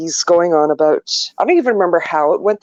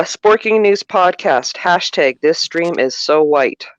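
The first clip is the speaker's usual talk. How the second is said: slow announcer read; mock announcer; slower than usual. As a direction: read it like a podcast intro. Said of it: "then I'll do this".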